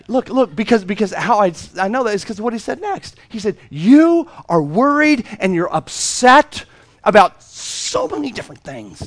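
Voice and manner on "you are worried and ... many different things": slow, tender reproach; slow gentle rebuke. Retold or imitated. Jesus gently telling Martha she is worried, slow and tender. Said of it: "I know he did it like that too".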